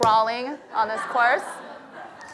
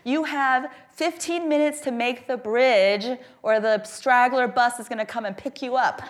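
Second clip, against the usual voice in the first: urgent warning; 3 semitones higher, slower than usual. Retold or imitated. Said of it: "struck fear into my heart".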